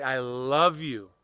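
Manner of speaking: slow, heartfelt "I love you", drawn out; sincere and slow, as if meaning every word. Shown as a demonstration. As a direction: say it from your heart, taking your time. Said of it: "try to say it with your heart".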